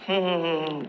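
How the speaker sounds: soft smiling "hmm"; closed-mouth smiling hum. Shown as a demonstration. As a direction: hum gently through a smile. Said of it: "Rasulullah tuh paling senyum".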